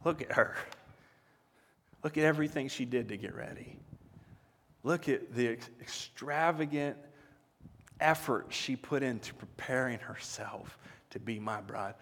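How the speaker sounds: hushed and breathless, like a groom seeing his bride; awed whisper. Acted. Groom at the wedding whispering about his bride, awed hush. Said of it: "He goes".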